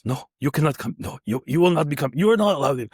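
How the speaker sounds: lightly put-on Russian accent; imitated Russian guard. Russian guard turns the visitor away, in a Russian accent. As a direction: refuse entry with a hint of Russian accent. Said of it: "there's a Russian guard and he goes".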